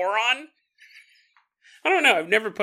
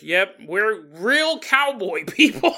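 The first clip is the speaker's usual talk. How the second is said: laughing mock cowboy; 3 dB louder, much slower than usual. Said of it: "We're like".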